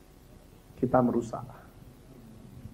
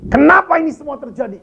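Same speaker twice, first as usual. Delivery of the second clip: higher, louder retold cry of despair; imitating a distraught friend's shout; mock yell; 9 semitones higher, 7 dB louder than usual. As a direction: play the frantic friend crying out. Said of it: "kok kamu teriak-teriak begini?".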